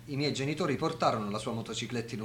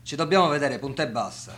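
louder, hard-pressing command; insistent demand; 5 dB louder than usual. Acted. Friend pressing Attilio into a meeting, louder and commanding. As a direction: leave him no way out.

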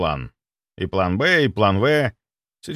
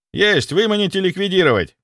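loud, high, eager military report; zealous soldier; 9 semitones higher, 4 dB louder than usual. Acted. Security chief vowing loyalty, loud and eager. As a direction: overeager servant. Sviridov misreads order.

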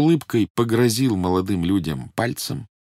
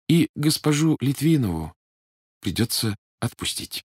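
gently; 6 semitones higher than usual. Acted. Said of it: "мягко сказал Эраст Петрович".

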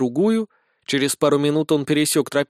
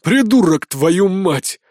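growling corporal; 3 semitones higher, 5 dB louder, much slower than usual. Acted. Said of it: "рыкнул капрал".

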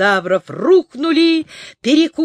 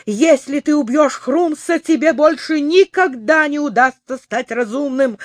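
earnest pleading; 5 semitones higher, 3 dB louder than usual. Acted. Neznaika pleads with dinosaur.

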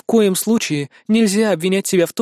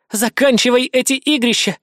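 exhaled; 5 semitones higher than usual. A narrator's reading. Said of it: "выдохнула она".

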